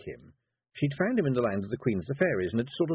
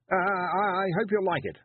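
put-on stammering nervous boy; 10 semitones higher than usual. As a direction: stutter it out shyly. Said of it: "blush and stutter".

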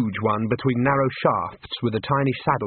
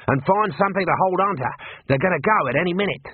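higher, raised voice over the noise; calling out; 6 semitones higher than usual. Acted. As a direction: shout orders from the horses. Mad calls over the horses.

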